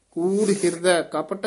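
ਕੂੜ ਹਿਰਦੈ ਕਪਟ, then a brief break after ਕਪਟ; slight pause after ਕਪਟ. Shown as a demonstration. Teacher showing reciters where to break, slight pause after ਕਪਟ. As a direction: hold briefly after ਕਪਟ before continuing. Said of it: "ਇੱਥੇ ਠਮਕ ਹੈ".

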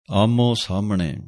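ਆਮੋ ਸਾਹਮਣੇ with a heavy aspirated h; ਭਾਰਾ ਕਰਕੇ ਬੋਲੋ; heavy pronunciation. Shown as a demonstration. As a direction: weigh down the h in ਸਾਹਮਣੇ. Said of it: "ਇਹ ਥੋੜ੍ਹਾ ਭਾਰਾ ਕਰਕੇ ਬੋਲਣਾ ਹੈ".

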